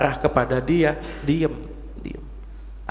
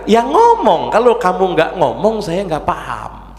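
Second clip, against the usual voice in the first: louder, higher retold retort to a spouse; insistent, raised-voice comeback in a retold spat; exasperated retort; 4 semitones higher, 4 dB louder than usual. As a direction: replay your exasperated answer, pushing the first words. Acted exasperated reply to wife.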